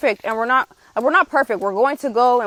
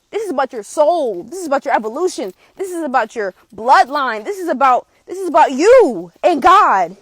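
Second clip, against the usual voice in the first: rising, louder and more forceful line by line; passionate insistence; 3 dB louder than usual. Real, not acted. Vlogger urging viewers toward God, building passionate emphasis. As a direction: preach it with building conviction, biggest on "you and God". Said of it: "but I call it passion".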